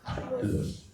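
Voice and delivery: put-on high, breathy "Carlos" in the old Chamorro way. Shown as a demonstration. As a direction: say "Carlos" like a Chamorro a hundred years ago. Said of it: "How would a Chamorro hundred years ago say Carlos".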